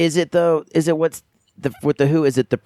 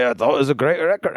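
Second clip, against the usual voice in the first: put-on Irish accent. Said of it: "I don't know why I'm doing Irish accents".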